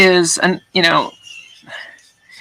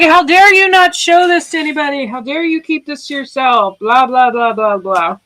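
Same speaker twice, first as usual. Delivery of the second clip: retold yell; 8 semitones higher than usual. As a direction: yell it like an outraged friend. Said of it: "he actually yelled at me".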